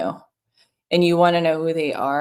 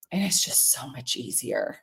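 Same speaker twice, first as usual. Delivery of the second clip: dropped to a soft, low aside; 5 semitones lower, 7 dB quieter than usual. Real, not acted. To viewers, murmuring how easy it gets. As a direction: say it half to yourself, softer. Repeats the line softly to herself.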